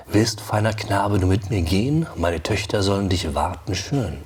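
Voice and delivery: measured recital in German; poem recitation. Acted. Teacher reciting the next stanza to the class, rhythmic. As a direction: read the verse to the galloping beat.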